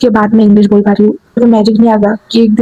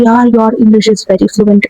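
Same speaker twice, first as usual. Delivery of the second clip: slow admiring compliment; much slower than usual. Retold or imitated. Acting a friend's compliment.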